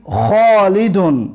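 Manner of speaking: خالدون said with a harsh throat kh; careful Arabic kh. Shown as a demonstration. Teacher reading the drill word خالدون, careful kh. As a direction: say خالدون with a clear rasping خ. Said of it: "تلفظ حرف خ را چقدر با دقت باشید".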